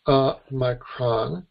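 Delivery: micron said slowly, each syllable stretched; drawn out letter name. Shown as a demonstration. Teacher stretching micron so students hear it. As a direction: draw out micron for emphasis. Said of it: "mispronounce a little bit just to, for emphasis".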